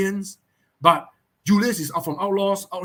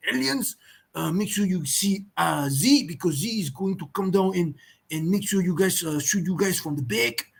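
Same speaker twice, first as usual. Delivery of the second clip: put-on French accent coaching; Waza. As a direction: give team advice in a light mock French accent. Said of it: "Waza is gonna say that".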